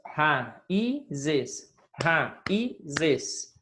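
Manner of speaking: "Raízes" broken into separate syllables. Shown as a demonstration. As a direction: count out "Raízes" syllable by syllable for a class. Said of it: "separe as, as palavras".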